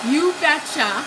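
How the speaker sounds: a light Fargo-style Minnesota you betcha; playful, lightly done Minnesota accent. Retold or imitated. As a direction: toss off a mock Minnesota you betcha, laughing. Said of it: "I have to watch Fargo again".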